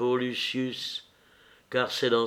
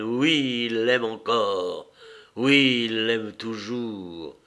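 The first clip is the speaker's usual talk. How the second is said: lower, drawn-out, restrained hatred; hateful; 4 semitones lower, slower than usual. A narrator's reading. Agrippine confirms Caesar still loves her, with hatred. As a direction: dwell on each phrase with contained hate. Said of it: "avec l'accent de la haine".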